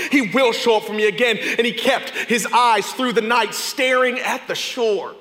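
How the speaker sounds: preaching at full force. Acted. Preacher retelling Peter's night to the congregation, at full force. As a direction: preach it out to the whole room.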